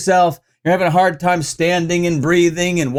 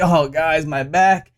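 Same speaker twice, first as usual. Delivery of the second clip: slow, pained pity-me whine in imitation; milk it slowly for sympathy, mockingly; mock sympathy-seeking; much slower than usual. Host mimics injured rapper's sympathy video, mock pitiful. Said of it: "really sympathy-laden kinda video, being like".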